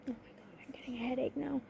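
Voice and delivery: very soft, nearly whispered; exasperated muttering. Real, not acted. Vlogger to herself after an interruption, exasperated muttering. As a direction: grumble it under your breath.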